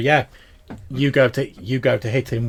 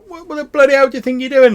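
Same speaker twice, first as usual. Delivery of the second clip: angry yell; 11 dB louder, faster than usual. Acted. GM voices angry NPC.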